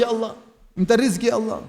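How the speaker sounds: imitating someone crying in prayer; mock tearful prayer. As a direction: act out a mildly weepy plea to God.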